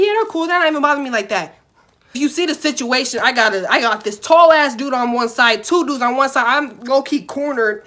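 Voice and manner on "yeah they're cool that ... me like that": fake cheerful. Faking fine to oblivious manager.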